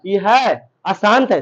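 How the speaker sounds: अशांत stretched slowly with a firm fall, the अ clearly sounded; slow down and lean on अशांत; stress on ashant. Shown as a demonstration. Teacher drilling students, slowly stressing अशांत. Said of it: "शांत नहीं है".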